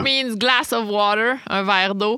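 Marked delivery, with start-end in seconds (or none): 1.5-2.2 un verre d'eau in a Quebec French accent. Shown as a demonstration. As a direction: model un verre d'eau like a teacher. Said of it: "to teach you some words".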